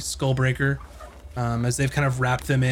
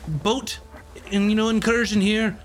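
lightly voiced, higher-pitched chatty local; 6 semitones higher than usual. Filling travellers in on the bridge, lightly voiced and chatty. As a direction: play a talkative local, pitched a little up. Game master plays chatty informant.

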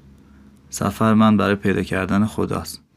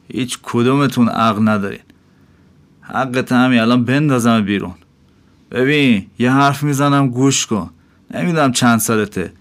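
a higher, firm innkeeper voice giving blunt advice; lecturing innkeeper; 3 semitones higher than usual. Acted. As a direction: preach at the dervish, half scolding.

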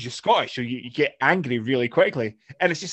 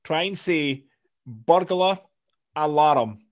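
said very slowly; 2 semitones higher, much slower than usual. Shown as a demonstration. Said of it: "I have to say this very slowly".

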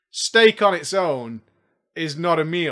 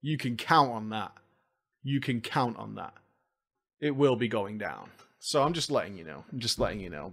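low menacing murmur; 9 semitones lower, 10 dB quieter than usual. Acted. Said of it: "Oh, yes".

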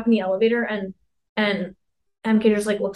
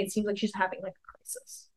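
hushed whisper; 2 semitones lower, 13 dB quieter than usual. Retold or imitated. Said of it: "I put her in my room, like".

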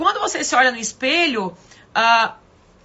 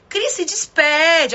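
friend gently teaching; 4 semitones higher, much slower than usual. Retold or imitated. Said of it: "Ela falava".

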